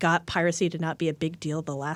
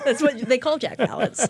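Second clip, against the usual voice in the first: said through laughter, pitched up; 7 semitones higher, 3 dB louder than usual. Joking in conversation, laughing while speaking.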